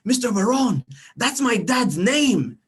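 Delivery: put-on high, slow child's voice, pleading; little boy voice. Student insisting to his teacher, high child voice. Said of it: "and Jared goes".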